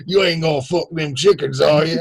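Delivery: hammed-up Alabama twang; mock Alabama accent. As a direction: mimic an Alabama farmer from a movie. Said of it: "That's all our Alabama accents".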